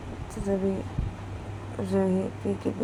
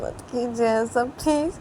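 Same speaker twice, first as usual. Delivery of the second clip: pleading; 4 semitones higher than usual. Acted. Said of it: "बोलती है".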